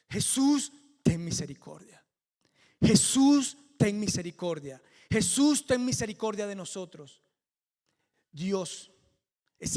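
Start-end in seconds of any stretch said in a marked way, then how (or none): 0.1-7.2 a pleading cry, repeated; crying out to Jesus. Retold or imitated. Lepers now crying to Jesus for mercy, loud pleading calls. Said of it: "miren lo que gritan ahora".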